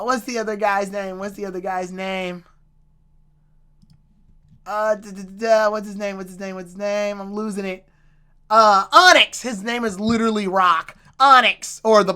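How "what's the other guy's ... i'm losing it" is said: soft, absent-minded repeating; quiet, distracted self-talk; muttering to oneself. Real, not acted. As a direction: mumble it while hunting for a forgotten name. Searching for a name, to self.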